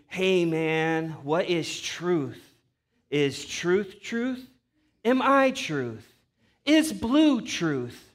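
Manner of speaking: a hint of a slow, dazed stoner; mock a slow, spacey stoner musing; stoned guy. Pastor mocking a stoned buddy, slow and dreamy. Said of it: "got high on some of that weed".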